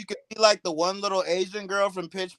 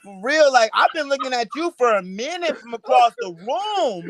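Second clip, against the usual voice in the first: mock shouted flirting; 4 semitones higher than usual. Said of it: "you had to shout".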